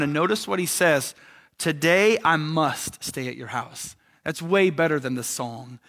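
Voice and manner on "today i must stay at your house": slow, deliberate stress on "must"; emphatic MUST. Retold or imitated. Jesus telling Zacchaeus he must stay, slow and emphatic on "must". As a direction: lean firmly on "must", unhurried. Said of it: "How emphatic is Jesus".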